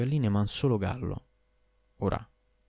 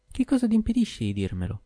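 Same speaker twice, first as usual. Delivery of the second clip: much higher, sharp demanding question; demanding wife; 14 semitones higher than usual. A narrator's reading. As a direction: push him hard for the secret. (moglie che esige, voce molto acuta)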